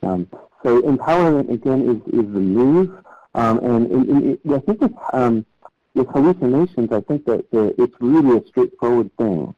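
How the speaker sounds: muffled voice through a covered phone. Real, not acted. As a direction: sound muffled, as if through cloth. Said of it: "told I'm being muffled".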